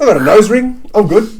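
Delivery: high, loud, pleased; excited girl voice. Retold or imitated. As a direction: brag it brightly.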